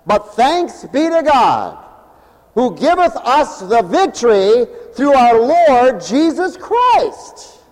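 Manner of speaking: triumphant proclamation. Acted. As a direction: proclaim victory, stretching the last word up. Triumphant scripture quote.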